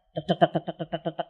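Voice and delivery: soft, quickly repeated tek sounds for leaves shaken loose; tree shaking sound. Shown as a demonstration. Preacher imitates a shaken tree for mothers, soft tapping. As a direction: tap out the shaking branch softly. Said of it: "digoyang nih".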